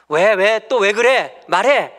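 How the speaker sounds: wife yelling at husband, the wrong way; irritated yell. Retold or imitated. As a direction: bark it at a tired husband. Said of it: "이게 아니라".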